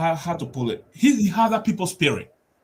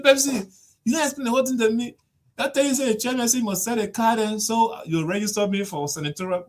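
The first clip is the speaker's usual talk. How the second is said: lightly voiced chairman; 6 semitones higher than usual. Quoting complaint to Pepsi.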